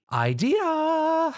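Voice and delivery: high, bright exclamation; excited eureka. A narrator's reading. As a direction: burst out with the idea. Sudden realization exclaimed.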